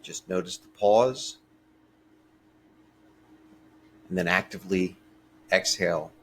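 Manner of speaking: calm, unhurried meditation voice with long pauses; guided meditation. Real, not acted. Teacher leading a short breathing meditation for listeners, calm and measured. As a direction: gently guide listeners through each breath, leaving space between phrases.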